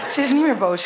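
laughing. Real, not acted. Still laughing.

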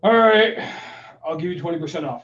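exasperated imitation of a reluctant agent; irritated concession. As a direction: give in grudgingly, mock irritated. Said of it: "they're gonna get real irritated with you".

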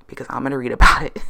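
loud, fast teasing threat; joking threat. Pretend. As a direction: blurt it out as a playful warning. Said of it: "I'm just joking".

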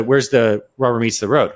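usual speaking voice

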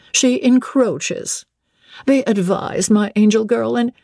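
high, measured lady's voice; lightly voiced anxious dowager; cautioning mother. A narrator's reading. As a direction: caution your daughter, pitched high. Lady Ingram cautions Blanche.

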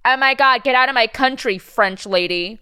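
hammed-up indignant xenophobe, starting high and loud; mock outrage. Imagined bigot ordering a French speaker out, mock outraged. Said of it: "no one's gonna be like".

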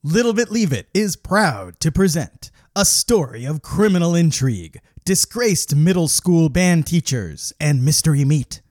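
loud, booming trailer announcer; movie trailer voice. Acted. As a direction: build it like an epic trailer.

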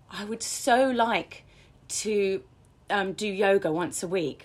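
longing, unsure, with gaps between phrases; wishy-washy wishing. Shown as a demonstration. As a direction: draw it out as a tentative wish. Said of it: "So it becomes wishy-washy".

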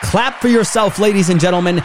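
high, rousing motivational shout; fired-up hype speaker calling out to the audience; rallying shout. Real, not acted. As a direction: work the crowd up to applause. Rallying listeners to applaud themselves.

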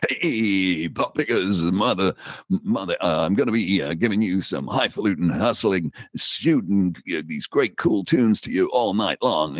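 lightly imitating a friend's jive disc jockey spiel; Emperor Roscoe DJ patter. Guest imitates his DJ friend's radio patter, mildly hyped-up. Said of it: "He used to do this".

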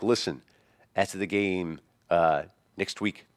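imitated New York guy, shriek dropped; King Henry New York accent. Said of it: "started talking like a normal person".

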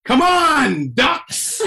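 put-on high, childlike calling-out; imitated five-year-old. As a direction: mimic a small child calling ducks. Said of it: "sounds like a five-year-old".

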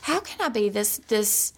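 acted-out frustration at being so upset; retold exasperation. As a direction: plead with yourself in disbelief. Retells scolding herself while crying.

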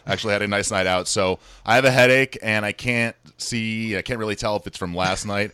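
rough, hungover voice. Real, not acted. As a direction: talk through a hangover headache. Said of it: "I'm hungover today".

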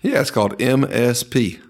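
laughing out the punchline; cracking up as he says it. Real, not acted. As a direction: burst out laughing mid-joke. Joke about bourbon resale.

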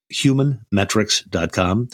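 slow, measured repeat of a web address; deliberate, spaced-out dictation pace; slow website readout. Real, not acted. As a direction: spell it out word by word for listeners to note. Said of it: "say these websites, uh, slowly".

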